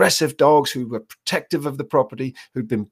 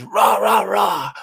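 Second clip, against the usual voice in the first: mock shouting noise; 7 semitones higher, much slower than usual. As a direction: bark "Rah, rah, rah" up high as meaningless yelling. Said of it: "all the dog hears is".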